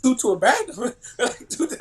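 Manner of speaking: high, loud disbelieving yelp; incredulous. Retold or imitated. Freshman hearing the coach's bathroom rule, incredulous. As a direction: squeal it like you can't believe the rule.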